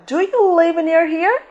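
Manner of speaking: "Do you live near here" slow, pitched high as a question; question intonation. Shown as a demonstration. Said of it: "Faz a entonação".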